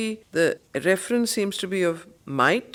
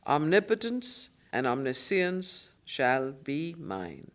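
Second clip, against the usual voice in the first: poem recitation; 2 semitones lower than usual. Acted. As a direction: declaim each line with grandeur, letting it breathe. Reads on through the poem.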